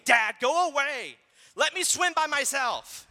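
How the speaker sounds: imitating a daughter yelling at dad in the pool; mock yelling child. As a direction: bark it out like a stubborn little girl. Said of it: "my daughter is yelling at me".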